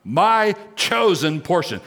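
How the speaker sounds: slow and resolute, each word set down; firm conviction. Shown as a demonstration. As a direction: declare it with settled resolve. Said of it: "Notice the conviction and the resolve".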